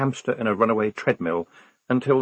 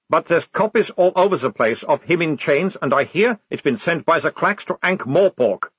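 higher, louder, taunting soldier; cocky captive sergeant; 7 semitones higher, 4 dB louder than usual. A narrator's reading. Prisoner needles lieutenant about the monstrous regiment, cocky. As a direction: relish the gossip as the cheeky prisoner.

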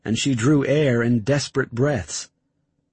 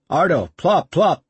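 shouting; 6 semitones higher, 4 dB louder than usual. Acted. Urgent orders on the boat.

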